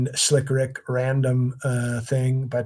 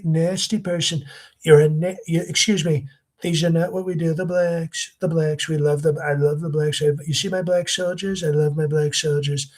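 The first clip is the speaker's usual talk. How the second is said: generic, smooth Trump impression, pitched up; Godfrey; 3 semitones higher than usual. Shown as a demonstration. Impressionist showing how a rival does Trump, smooth mock impression. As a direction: mimic another comic's easy Trump voice. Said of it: "see how that sounds like the Godfrey".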